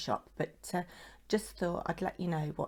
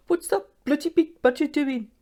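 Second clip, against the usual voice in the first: loud, high-pitched bad Birmingham accent; awful Birmingham accent; 10 semitones higher, 9 dB louder than usual. Quoting Mister Paper and Twine on the badger card, awful Birmingham accent. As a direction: put on a hammed-up Brummie accent, loud and high. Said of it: "that awful Birmingham accent".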